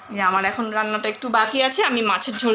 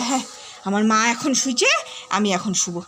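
voicing the dog; 4 semitones lower than usual. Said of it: "ও একটা দীর্ঘ নিঃশ্বাস ফেলবে".

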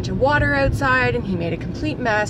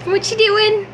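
much higher, louder sing-song, slow drawn out; 9 semitones higher, 4 dB louder, slower than usual. Real, not acted. Mom coaxing a smile from her little boy, high sing-song. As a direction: coax a smile out of him.

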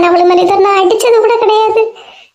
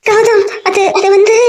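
shaky tearful stammer. Acted. Frightened woman stammering.

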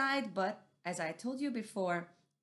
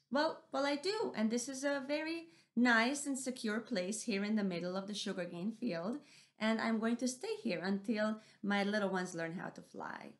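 settled and sure of her spot; content Missus Owl; 2 semitones higher than usual. Acted. Missus Owl telling mouse deer she will stay.

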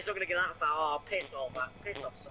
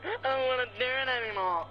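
mocking whine; 5 semitones higher than usual. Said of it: "You were like".

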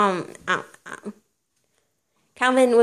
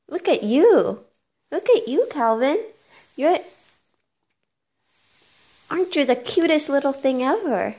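saccharine; 5 semitones higher than usual. Real, not acted. Cooing at baby.

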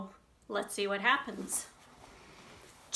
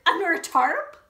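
loud, disbelieving follow-up; shocked cry; 7 semitones higher, 9 dB louder than usual. Acted. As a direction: keep the outrage going. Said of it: "cried Dirt".

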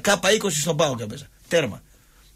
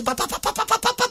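high-pitched rat-a-tat of pap-pap-pap; machine-gun run of punch noises; imitated rapid blows. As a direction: mimic a quick volley of hits.

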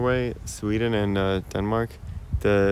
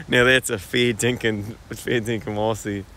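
slow, put-on Aussie accent; Australian accent. Streamer jokes about passing as Australian, mock Aussie accent. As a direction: lean into broad mock-Australian slang, drawn out. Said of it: "little tones like this going on".

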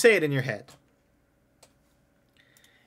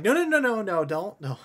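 panicked guard; 8 semitones higher, 3 dB louder than usual. Acted.

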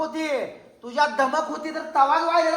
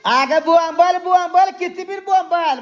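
louder, scornful jeering at her; angry taunt; 3 dB louder, slower than usual. Acted. Husband jeering at his wife mid-quarrel, angry taunt. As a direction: dare her to shout all she wants.

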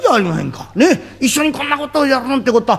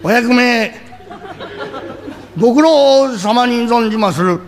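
mock formal greeting; slower than usual.

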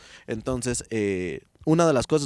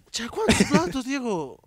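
higher, sharper repeat of mother's question; retelling his mother, mother repeats the question higher, demanding; mock mother scolding; 8 semitones higher, much slower than usual. Mother scolding about dirty dishes.

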